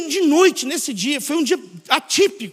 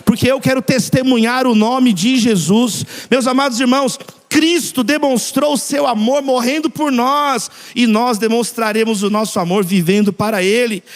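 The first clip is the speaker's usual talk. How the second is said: loud, declarative altar-call cadence; impassioned preaching; 5 dB louder than usual. Real, not acted. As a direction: lead the congregation in a fervent declaration. Leads congregation in closing declaration.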